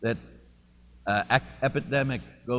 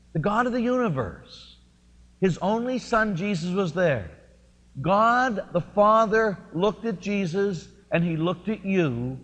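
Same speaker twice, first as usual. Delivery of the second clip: high, loud, slow preaching build; preaching climax; 7 semitones higher, 5 dB louder than usual. Real, not acted. Pastor proclaiming God's choice to the congregation, loud and high. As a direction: lift it to the rafters, slowly.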